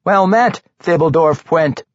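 high, nervous hearty greeting; forced enthusiasm. A narrator's reading. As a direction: greet brightly past a lump of fear. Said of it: "announced as enthusiastically as he could manage, past the lump of fear".

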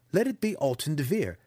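lightly voiced schemer bargaining for his life; pleading captive wizard. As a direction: lay out the desperate plan. Alton argues his plan.

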